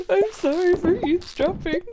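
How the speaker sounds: apologetic. Retold or imitated. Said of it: "and I'm like".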